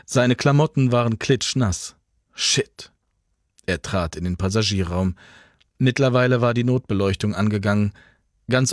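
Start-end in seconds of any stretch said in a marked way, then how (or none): 2.3-2.9 breathed-out swear under his breath; muttered, soaked and annoyed; whispered curse. Acted. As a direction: hiss it to yourself, annoyed. Soaked, cursing to himself.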